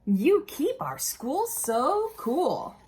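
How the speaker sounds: high, slow, gushing thanks; grateful teacher. Pretend. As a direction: sing out the thanks like a delighted teacher. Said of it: "Miss Banks would say".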